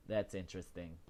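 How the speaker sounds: murmured to herself; quiet musing. Shown as a demonstration. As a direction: let it sink to a quiet aside. Repeats the line, trailing off.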